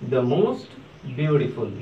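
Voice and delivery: the most beautiful said very slowly, word by word; slow model phrase. Shown as a demonstration. Teacher modelling the superlative to students, very slow and clear. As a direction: spell it out slowly for the class. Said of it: "इसके पहले the most का use करना है".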